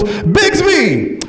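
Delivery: high call, falling away; calling the cat. Acted. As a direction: call out for a lost pet. Friend calls out for her cat.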